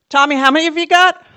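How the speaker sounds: loud high shout across the hill; calling out. Retold or imitated. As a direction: yell it up the hill to Tommy. Calling out to boy far away.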